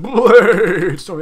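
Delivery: loud, high game call-out; high-pitched gamer yell; excited yell. Real, not acted. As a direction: yell it out suddenly over the action. Calls out game attack mid-play.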